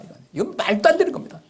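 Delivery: high, loud indignant outburst, rising on 안; angry protest. Retold or imitated. Jonah protesting to God, high and indignant. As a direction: hurl 이건 말도 안 되는 겁니다 at God, 안 leaping high and loud. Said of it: "하나님한테 그냥 막 화를 막 내".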